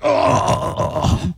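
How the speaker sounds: long acted groan of dismay; drawn-out mock-agonized "oh"; cringing groan. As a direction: groan as if doubling over at a bad memory. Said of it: "Start to double over".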